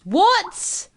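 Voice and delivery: shocked what. Acted. Son shocked at school change.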